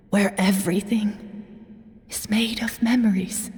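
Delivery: hushed whisper of faith. Acted. Dying elder tells his friend of the Night Kingdom, whispering. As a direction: whisper it like a sacred belief.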